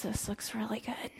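softly craving; hungry hush. Acted. Starving son eyes pig food.

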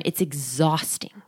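breathed softly, almost voiceless; weary whisper. Real, not acted. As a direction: sigh it out, drained. Describing holding the ball under.

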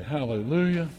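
usual speaking voice

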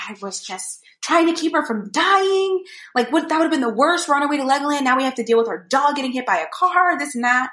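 high-pitched mock indignant rant; imitated exasperation. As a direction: protest like an upset husband defending himself. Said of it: "Derek is pissed".

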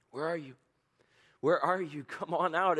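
high, loud inviting call; God calling loudly from the garden. Acted. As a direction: call them out of hiding.

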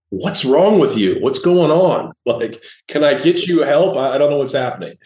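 mock concern for a stranger who won't drop it; baffled disbelief. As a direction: ask if she needs help, incredulous. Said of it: "I was like".

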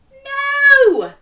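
high, loud no; emphatic no. Acted. Storyteller answering the children, emphatic no. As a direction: answer the kids firmly. Turnip not out yet.

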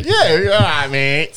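lightly put-on northern accent; casual jokey northern greeting; a touch of broad northern. Shown as a demonstration. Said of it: "we always talk in a northern accent".

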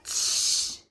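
a sharp unvoiced shush; hushing. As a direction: hush him in church without a voice. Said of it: "and I'm like".

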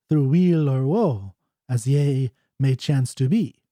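lilting verse with lifted line openings; measured, paused poetic reading; ballad dialogue recitation. Acted.

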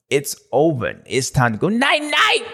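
mock tough guy putting someone to sleep; hammed-up movie gangster threat; gangsta El Hombre. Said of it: "like gangsta style".

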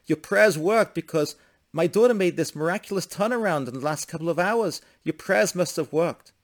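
high, animated acted joy; excited good news. Father reports his daughter's turnaround, excited amazement.

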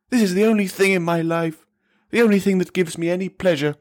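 high-pitched, tearful tirade; anguished screaming. A narrator's reading. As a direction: cry out in wretched, wounded rage. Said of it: "his voice crying out, his anguish".

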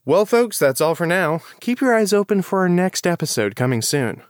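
lively, polished podcast sign-off; show outro announcer. Real, not acted. Host signing off to listeners, announcer style. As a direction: read it like a host closing the show.

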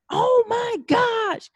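slow, high "oh my gosh"; shocked, drawn out. Retold or imitated. Mom horrified at her own yelling, slow and high. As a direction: stretch it out in horror. Panicking after yelling at child.

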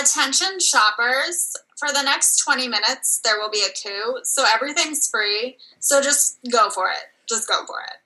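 store PA announcement; tinny loudspeaker announcer voice; through a megaphone. Acted.

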